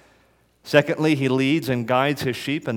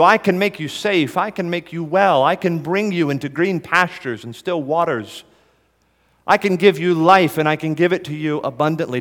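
raised, ringing promise, higher and louder; fervent preaching; 4 semitones higher, 3 dB louder than usual. Acted. Preacher voicing Jesus' promises to the congregation, fervent. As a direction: lift it up with passion.

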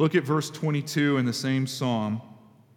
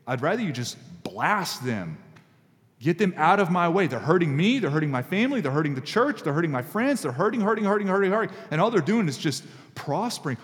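building, insistent mock anger; frustrated prayer; 2 semitones higher than usual. Pastor voicing an honest angry prayer against enemies, building. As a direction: pile up the complaints, hurting rising each time. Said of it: "Man, I'm so angry".

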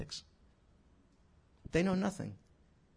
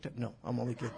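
chuckling through the words; laughing; 4 semitones lower, 6 dB quieter, much faster than usual. Real, not acted. Preacher laughing at his own joke to the congregation.

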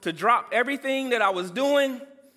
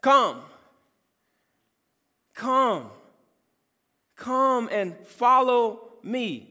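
calling; 3 semitones higher, 4 dB louder, much slower than usual. Retold or imitated. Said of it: "He is calling us by name".

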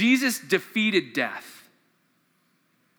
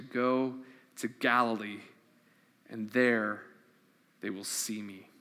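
measured reading of the Easter passage; scripture reading. Acted. Pastor reading scripture to church, solemn and measured. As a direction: read the Gospel aloud to the congregation. Reads Matthew passage aloud.

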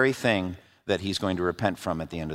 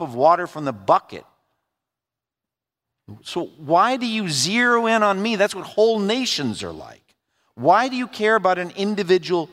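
higher, pleading and intense, fading to hushed; Job's anguished plea; 6 semitones higher than usual. Acted. Job begging God to look away from him, anguished then hushed plea.

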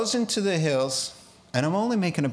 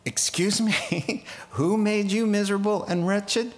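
incredulous; 5 semitones higher than usual. Real, not acted. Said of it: "preacher reacts incredulously".

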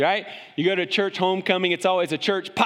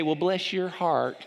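mock sweet southern; 4 dB quieter, slower than usual. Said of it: "a lot of people say".

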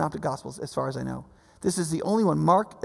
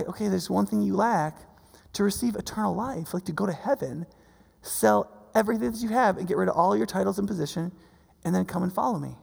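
gentle; 5 dB quieter than usual. Retold or imitated. Jesus gently instructs the man he loves.

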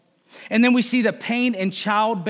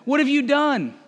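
higher, louder demanding question; God asking Eve; 7 semitones higher, 4 dB louder than usual. Acted. God questioning the woman, louder and higher. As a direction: ask it like a parent who knows. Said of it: "Then the Lord God asked the woman".

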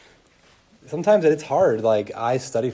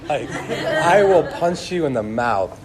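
laughing; 4 semitones higher, 5 dB louder, slower than usual. Retold or imitated. Laughing retelling of teen rage.

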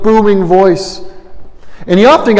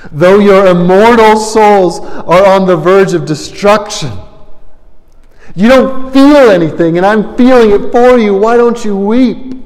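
impassioned plea; 4 semitones higher than usual. Acted. Preacher quoting Whitefield's rebuke.

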